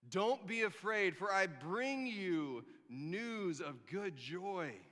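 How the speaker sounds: very slow, solemn proclamation; grand angel. Acted. Angel announcing good news to shepherds, slow and solemn. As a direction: proclaim it like a heavenly messenger.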